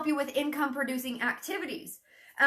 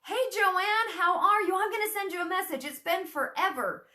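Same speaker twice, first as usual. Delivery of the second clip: bright friendly greeting; 7 semitones higher than usual. Shown as a demonstration. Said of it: "just be like".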